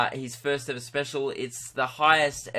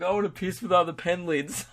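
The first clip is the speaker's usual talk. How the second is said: laughing mock pen lid voice; 5 semitones higher than usual. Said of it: "You're like".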